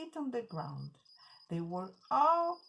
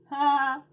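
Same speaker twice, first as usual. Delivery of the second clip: scoffing laugh; 4 semitones higher, 11 dB louder than usual. Acted. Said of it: "The rabbit said".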